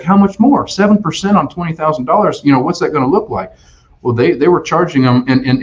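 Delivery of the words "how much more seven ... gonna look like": high panicked disbelief; mock alarmed customer; freaking out. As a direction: squeak it out like a panicked buyer. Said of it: "he's freaking out".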